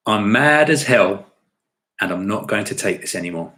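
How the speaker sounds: half-hearted mad-as-hell outburst, slowing on the first words; movie outburst. Acted. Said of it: "open the window to do that one".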